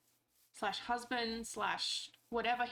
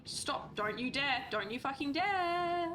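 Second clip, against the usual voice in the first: warning yell; 4 semitones higher than usual. Real, not acted. Scolding an escaping mob, rising angry warning. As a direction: warn it off, getting higher and angrier.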